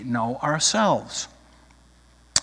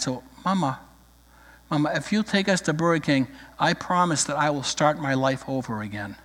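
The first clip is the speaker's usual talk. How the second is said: soft, mock-earnest little boy plea; a quiet little boy making a grand promise; somber child; 4 dB quieter than usual. The boy somberly bargains with his mom, softly. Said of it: "now somber".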